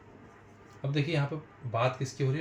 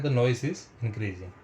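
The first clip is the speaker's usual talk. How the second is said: each word drawn out; slow dictation; 3 dB louder, much slower than usual. Shown as a demonstration. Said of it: "teacher dictating slowly". (धीरे-धीरे लिखवाना)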